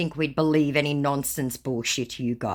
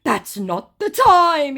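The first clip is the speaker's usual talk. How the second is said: high, loud, slow put-on scammer voice; mock scammer voice; 10 dB louder, much slower than usual. Scammer refusing a phone call, high slow mock voice. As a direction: brush it off sweetly. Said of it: "he said".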